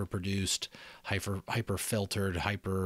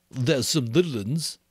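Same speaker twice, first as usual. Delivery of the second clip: lightly voiced boy, a bit higher; Piggy's voice; 5 semitones higher, 4 dB louder than usual. Piggy answering Ralph, a lightly voiced boy.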